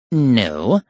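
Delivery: mild but final; mild finality. Acted. Professor correcting the girls, mildly final. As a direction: say it mildly, like closing the matter for good. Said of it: "mildly, but with the finality".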